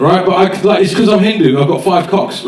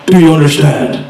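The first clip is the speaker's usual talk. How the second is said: Liam Neeson in Taken; 2 semitones higher, 4 dB louder than usual. Acted. Father demands an answer from the caller, forceful threat. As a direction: press the demand hard. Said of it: "here's my version of Taken".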